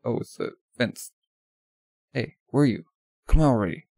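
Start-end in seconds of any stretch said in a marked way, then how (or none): 2.1-3.9 loud call to a hidden friend. Acted. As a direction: call out louder at the end. Calling out for hidden ally.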